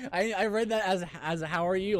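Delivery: laughing. Real, not acted. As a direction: giggle out the admission. Laughing at own misreading.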